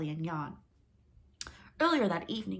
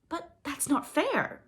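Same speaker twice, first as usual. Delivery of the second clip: slow, higher, louder protest; indignant cry; 10 semitones higher, 6 dB louder, slower than usual. Acted. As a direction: cry out at the injustice. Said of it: "Megan cried".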